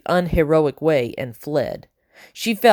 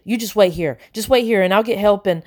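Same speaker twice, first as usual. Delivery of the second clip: babbling; 4 semitones higher than usual. Acted. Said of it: "he babbled".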